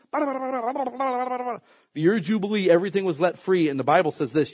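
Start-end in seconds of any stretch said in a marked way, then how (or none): 0.1-2.7 slow emphasis. Acted. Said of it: "slow emphatic repeat".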